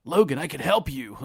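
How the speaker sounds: lightly voiced all-American football jock; a hint of an eager jock offering help; mild all-American jock impression. Quoting Colossus in all-American voice.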